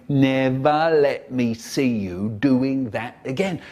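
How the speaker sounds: slow, lightly voiced scolding father; mock stern dad. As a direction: imitate a telling-off from dad, slow and loud. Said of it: "just like my dad".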